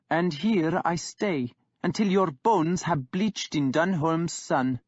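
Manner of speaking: put-on young king holding firm; defiant young king. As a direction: stand your ground, unmoved by the insult. Guthred, young king, defies Kjartan.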